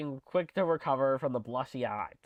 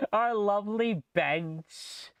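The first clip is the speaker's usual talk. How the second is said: delighted squeal; 5 semitones higher, much slower than usual. Real, not acted. Delighted at the cafe bench.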